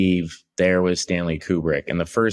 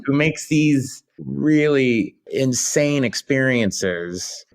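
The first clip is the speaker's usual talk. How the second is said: higher, amazed retelling of own reaction; retold excited gasp; 7 semitones higher than usual. Retelling his shock at Kubrick's voice, higher and amazed. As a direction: gush like a stunned fan, pitched up. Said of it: "I went".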